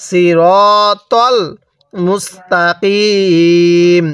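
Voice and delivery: সিরতল মুস্তাকিম slowly, rounded ro, heavy t, long ee; measured recitation of সিরতল মুস্তাকিম, vowels held long; correct emphatic reading. Shown as a demonstration. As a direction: draw out সিরতল মুস্তাকিম with thick emphatic letters. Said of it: "এটা ত পড়ব".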